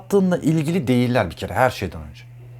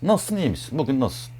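softer, gentle "Nasılsın, iyi misin? Bugün nasılsın?"; caring soft ask; 4 dB quieter than usual. Shown as a demonstration. Checking on an upset friend, soft and caring. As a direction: ask it softly, as if you care. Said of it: "Nasıl söylediğinde ilgili".

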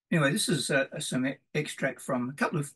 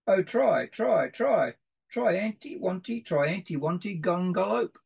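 rousing refrain; 5 semitones higher than usual. Acted. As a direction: lift the last try anti-wanty up to a big finish. Final refrain, climax.

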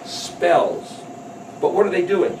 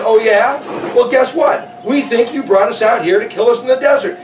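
higher, louder mock challenge; defiant accusation; 5 semitones higher, 5 dB louder than usual. Israelites challenging Yahweh in the desert, defiant accusation. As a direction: throw the complaint back defiantly.

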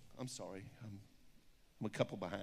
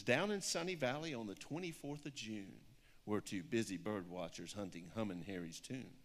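lilting rhyming picture-book read; story reading; 4 semitones lower than usual. Acted. Author reads her picture book aloud to an audience, storybook lilt. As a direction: read the rhyme with a steady storybook bounce.

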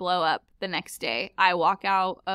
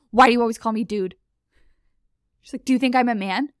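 indignant roommate; 3 semitones higher, 8 dB louder, faster than usual. Retold or imitated. Roommate angry about being called dude.

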